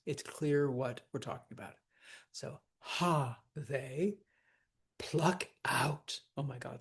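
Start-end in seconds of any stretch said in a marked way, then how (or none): 2.8-4.2 ha held as the strong beat, they lighter; stress on ha. Shown as a demonstration. Teacher scanning a trochee, stress on ha. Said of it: "So we hit ha". 5.0-6.2 pluck and out both stressed; spondee. Shown as a demonstration. Teacher scanning verse, both pluck and out stressed. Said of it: "to hit both of those".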